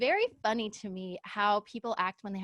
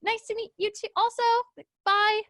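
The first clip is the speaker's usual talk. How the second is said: sarcastic; 10 semitones higher, 4 dB louder than usual. Retold or imitated. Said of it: "And I was like".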